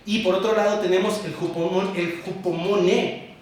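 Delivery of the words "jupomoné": jupomoné stressed on the final NÉ; acento en la E. Shown as a demonstration. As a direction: say jupomoné slowly, landing on the last é. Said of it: "termina con acento en la E". (jupomoné con acento en la é final)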